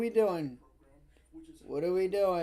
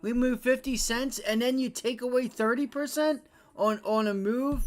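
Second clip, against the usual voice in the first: louder, pitched-up frustrated rant; angry rant; 4 semitones higher, 4 dB louder than usual. Real, not acted. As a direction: vent real anger at the market. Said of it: "You see why I get mad?".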